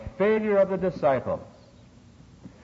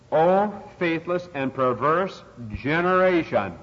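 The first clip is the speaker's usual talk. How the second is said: slow, drawn-out solemn quote; measured pulpit declamation; scriptural rebuke; 3 semitones higher, slower than usual. Retold or imitated. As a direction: quote a weary rebuke, stretching each word. Quoting Jesus' rebuke in preaching.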